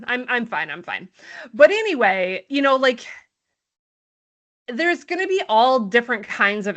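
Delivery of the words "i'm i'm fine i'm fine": mock fine. Real, not acted. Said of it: "not bitter".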